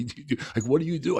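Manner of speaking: high incredulous mock questioning; lightly voiced baffled executive; mock president. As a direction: ape the boss's baffled questions. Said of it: "That's what he said to me".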